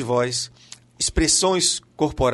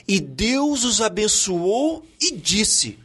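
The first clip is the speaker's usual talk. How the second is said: deliberate, drawn-out recitation; slow scripture quote; 4 semitones higher, much slower than usual. Acted. Podcast guest quoting Genesis to the host, slow recitation. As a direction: recite it very slowly, phrase by phrase.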